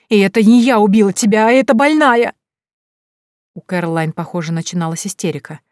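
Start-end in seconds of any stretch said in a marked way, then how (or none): 0.1-2.3 loud, high, stress on не; hysterical blame. A narrator's reading. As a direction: shove the blame away in panic. Hysteria begins. (истерично перекладывает вину)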